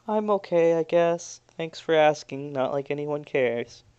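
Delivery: soft, sulky mumble; timid. Acted. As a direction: say it meekly, fishing for pity. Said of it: "looks real timid and says".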